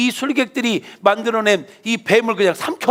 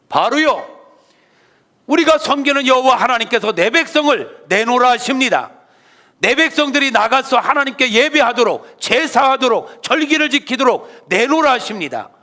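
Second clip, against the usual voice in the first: bold demand; 5 semitones higher, 4 dB louder than usual. Acted. Moses confronts Pharaoh.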